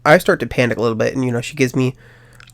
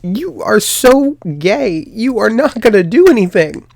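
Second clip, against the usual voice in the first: laughing counselor; 8 semitones higher, 4 dB louder than usual. Retold or imitated. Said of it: "And she's like".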